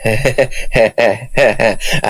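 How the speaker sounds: low, forced nervous chuckle; uneasy laugh. Acted. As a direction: laugh weakly to hide unease. Husband feigns joy, uneasy.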